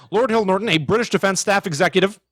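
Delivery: imitating Aykroyd's grand, high announcing tone; Dan Aykroyd impression. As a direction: puff up the title like Aykroyd did. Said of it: "'Cause it's Dan Aykroyd, so he said it as".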